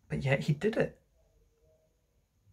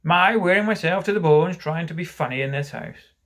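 bitter, raised complaint; 4 semitones higher, 5 dB louder than usual. Acted. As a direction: grumble loudly about thankless effort. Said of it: "he said bitterly".

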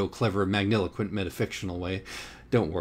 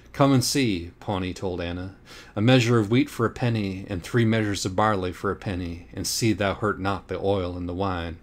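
proclaiming. Acted. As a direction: announce it like a prophet. Pawnee proclaims like biblical rider.

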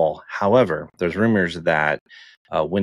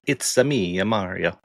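mock Italian. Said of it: "like an Italian accent".

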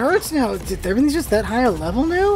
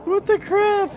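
startled high yelp; 11 semitones higher, slower than usual. Real, not acted. Startled again.

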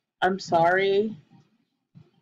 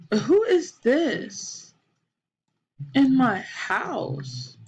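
surprised; 4 semitones higher, much slower than usual. Real, not acted. Stranger appears in her house.

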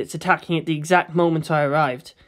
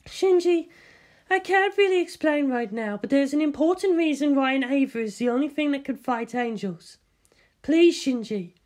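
gentle, caring; 8 semitones higher than usual. Acted. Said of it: "Her voice was gentle, caring".

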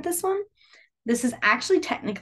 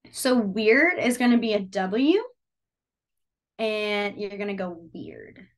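slow demo; slower than usual. Shown as a demonstration. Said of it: "slow demo of sign".

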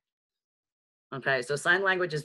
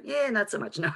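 reluctant no; 5 semitones higher than usual. Acted. Acting out a reluctant answer.

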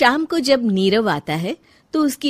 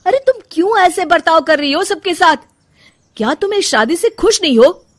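frustrated questioning; 9 semitones higher, 8 dB louder than usual. Acted. Husband confronts upset wife.

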